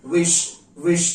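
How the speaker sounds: विश ending in a full sh sound; विश with a clear श at the end; wish with sh. Shown as a demonstration. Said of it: "उच्चारण हम कैसे करेंगे?". (विश श के साथ)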